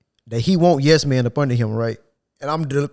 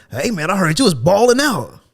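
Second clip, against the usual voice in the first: high, louder mock of the plant manager; lightly hammed-up manager voice; 6 semitones higher, 5 dB louder than usual. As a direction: parody a boss trying to sound cool. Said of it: "He was like".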